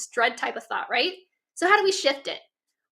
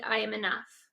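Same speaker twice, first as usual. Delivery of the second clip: quiet, low and soft, said inward; hushed self-reassurance; soft inner affirmation; 4 semitones lower, 7 dB quieter than usual. Shown as a demonstration. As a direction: murmur it as if only in your head. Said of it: "and repeat".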